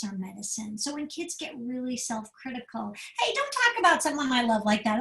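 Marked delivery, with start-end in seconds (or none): 3.2-5.0 firm parent. Acted. Parent stopping child's self-criticism.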